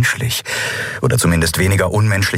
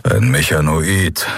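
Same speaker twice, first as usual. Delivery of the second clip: slow, rumbling grumble; grumbled; 2 semitones lower, slower than usual. Acted. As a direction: let the word roll out slowly and gruffly. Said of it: "brummte Kero".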